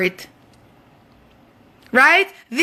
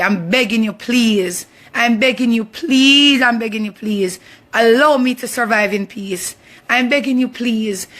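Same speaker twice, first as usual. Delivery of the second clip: pleading; 3 semitones lower than usual. Real, not acted. Pleading with the auntie.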